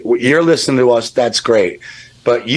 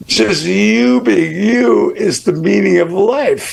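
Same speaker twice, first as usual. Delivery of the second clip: getting teary; 7 semitones higher, slower than usual. Real, not acted. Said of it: "I'm getting tears".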